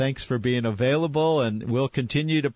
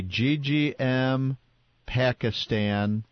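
over enunciating; much slower than usual. Shown as a demonstration. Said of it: "say that one more time slowly".

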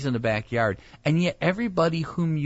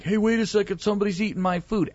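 mock objection; 10 semitones higher than usual. Imagined guest objecting over food.

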